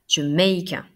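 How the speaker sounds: "Jamaica" with a strong MAI in the middle; stress on second syllable. Shown as a demonstration. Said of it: "J'insiste sur la deuxième syllabe". (« Jamaica » avec l'accent sur la deuxième syllabe)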